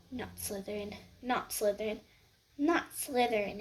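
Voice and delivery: Harry silently pleading; pleading thought. Acted. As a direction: beg under the breath.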